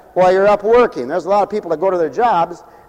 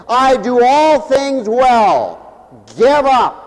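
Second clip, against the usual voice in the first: smug boast; much slower than usual. Retold or imitated. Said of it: "by saying".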